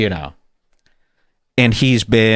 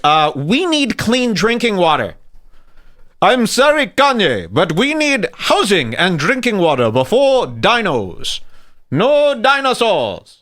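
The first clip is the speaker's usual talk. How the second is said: playing the Ugandan official; 5 semitones higher than usual. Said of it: "And the guy's like".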